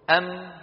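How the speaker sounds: أم with the lips shut on the م; closed lips on meem. Shown as a demonstration. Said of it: "الميم الساكنة بانطباق الشفتين". (ميم ساكنة بانطباق الشفتين)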